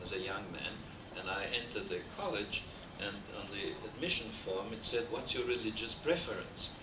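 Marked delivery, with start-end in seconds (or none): none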